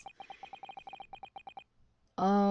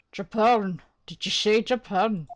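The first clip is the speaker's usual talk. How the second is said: attempted Irish accent; 4 dB louder than usual. Governor reacts to Japanese visitor.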